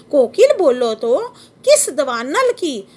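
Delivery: slow, measured reading of verse; poem recitation. Shown as a demonstration. Teacher reciting the poem to the class, slow and measured. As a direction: savour each word like a recital. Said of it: "ये question देखो पूछ रहा है".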